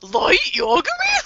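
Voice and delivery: a high, slow, breathless mock-scared whisper; frightened whisper. Victim recognising the killer's voice, mock-terrified whisper. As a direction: gasp the name in fake terror. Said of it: "you would just wheel around and be like".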